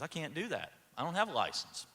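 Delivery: retold calm, soft-spoken refusal; understated and unbothered; calm reply. University president answering a young officer, calmly. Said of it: "President Freeman very calmly says".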